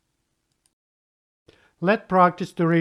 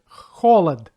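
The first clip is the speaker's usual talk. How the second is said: холод stressed as "KHO-lad"; first-syllable stress; 5 dB louder than usual. Shown as a demonstration. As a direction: hit the first O of холод, second O reduced to A. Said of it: "First one is under stress".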